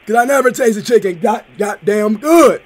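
hammed-up prank caller raving about chicken. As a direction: play a rowdy, overexcited customer on the phone. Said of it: "Was that a good voice?".

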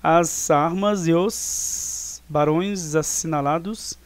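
slow scansion with "e os" run into one syllable; verse read slowly, "e os" joined as one sound; poetic syllable linking. Shown as a demonstration. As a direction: draw out "as armas e os barões assinalados", fusing "e os". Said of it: "temos aqui a junção de eus".

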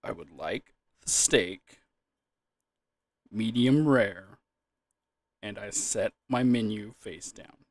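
slow, measured diner ordering; unhurried and deliberate, no character voice; deliberate, normal voice. Shown as a demonstration. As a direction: say it plainly, word by word. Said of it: "if I just say it normally".

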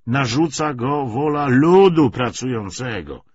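measured lecture with emphatic surges; lightly voiced party orator. Commissar justifies the treaty to comrades, mildly oratorical. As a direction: argue the policy point by point.

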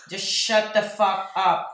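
slow, loud, emphatic self-scolding; exasperated. Retold or imitated. Photographer scolding own recorded voice, exasperated. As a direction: stress each word in mock exasperation.

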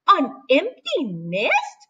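slow, wondering question; mildly surprised chicken; a touch of surprise. Acted. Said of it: "cried the chicken".

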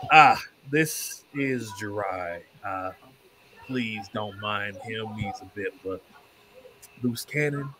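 slow, polite introduction in character; lightly voiced apologetic trader, taking his time; courteous merchant character.

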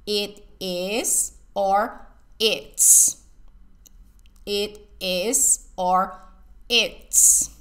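"It is or it's" spoken very slowly, "it's" breathed out; slow teaching demo. Shown as a demonstration. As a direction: slowly model both forms for the student. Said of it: "It combina con is".

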